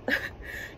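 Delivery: short, soft acted laugh; scornful piper's laugh. A narrator's reading. Piper laughs at the mayor's thanks, short acted laugh. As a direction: give a quick, quiet storybook laugh. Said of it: "The piper laughed".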